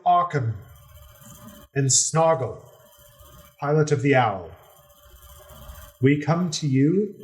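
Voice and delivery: formal, courtly announcer raising the pitch; noble voice. Acted. Natasha announcing her party to the pirate king, a lightly noble voice. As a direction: present the party like a herald at court. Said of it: "in her best, uh, noble voice".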